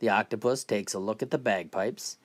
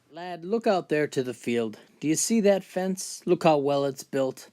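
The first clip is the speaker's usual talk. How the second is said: put-on higher-pitched boastful old-timer; McGregor, proud old man; 3 semitones higher than usual. Old man boasting to a lad about his fence, proud and aggrieved. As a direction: play an old builder proudly listing his work.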